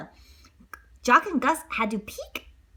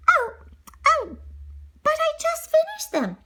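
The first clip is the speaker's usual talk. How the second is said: high dismayed heroine. Acted. Cinderella protesting.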